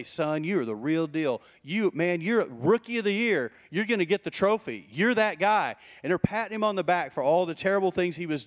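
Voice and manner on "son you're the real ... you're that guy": hyping praise. Retold or imitated. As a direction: pump up the rookie.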